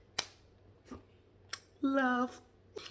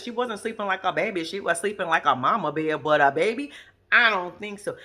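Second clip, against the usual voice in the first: mock loud retort; 6 dB louder than usual. Mocking Monique's snoring.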